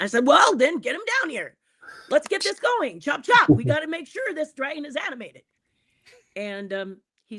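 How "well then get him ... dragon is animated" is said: impatient eager push. Retold or imitated. The speaker impatient.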